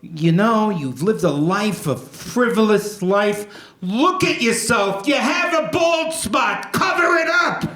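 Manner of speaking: half-hammed self-reproach, rising at the end; talking to himself. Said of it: "I looked at myself in the mirror, and I said".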